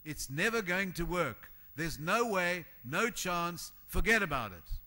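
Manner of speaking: mock crowd yelling stop, stop, stop; naysayers shouting stop. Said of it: "You hear people all around you saying".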